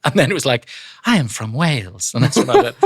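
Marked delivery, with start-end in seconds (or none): 1.0-2.1 put-on German accent with a touch of Italian; generic European accent, part German, part Italian; lightly mixed German-Italian accent; vague European accent. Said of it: "kind of a German, Italian, sort of European accent".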